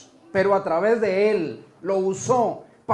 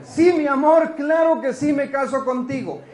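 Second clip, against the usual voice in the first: higher-pitched, gushing yes; acted delighted bride-to-be; 3 semitones higher than usual. Woman accepting her boyfriend's proposal, mock-gushing and higher. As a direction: play a sweetheart eagerly accepting. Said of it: "¿Y ella qué le dice?".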